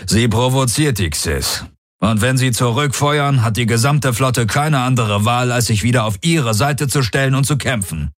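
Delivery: grim urgency, voice lifted; urgent explanation. Acted. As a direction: spell out the danger urgently. Commander explains the provocation under fire.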